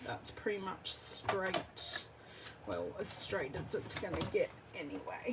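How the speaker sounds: talking while crunching food. Real, not acted. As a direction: say it mid-crunch, mouth full. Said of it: "please excuse my crunching".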